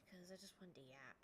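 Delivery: soft whispered aside; whispering. Real, not acted. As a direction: whisper it confidingly. Late night, aside.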